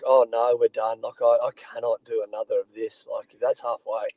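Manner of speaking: low, subdued defeated voice, imitating himself; retold inner despair. Player recalling his first pre-season breaking him, mildly despairing. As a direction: sink into a mock broken resignation. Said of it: "in my mind, I broke".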